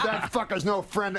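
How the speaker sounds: high-pitched indignant cursing; mock outrage. Rodney rejects the common friend, mock outrage.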